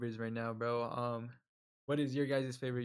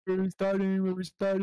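loud; 5 semitones higher, 6 dB louder than usual. Acted. Calling out restart.

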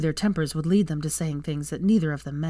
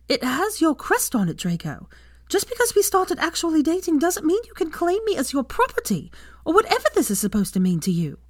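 shouting; 11 semitones higher than usual. Acted. Hermione accusing Draco of claiming her, angry shout. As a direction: yell it at him in outrage. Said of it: "she shouted at him".

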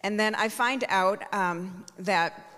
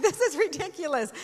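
laughing it off, pitch up; a real laugh through the words; 6 semitones higher than usual. Real, not acted. Laughing at everyone crying.

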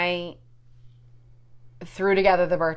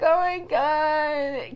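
put-on stunned teen; 9 semitones higher, much slower than usual. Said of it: "Emma's like".

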